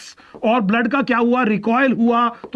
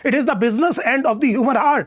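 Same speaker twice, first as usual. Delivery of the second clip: slow emphatic English; much slower than usual. Shown as a demonstration. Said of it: "teacher stresses key line".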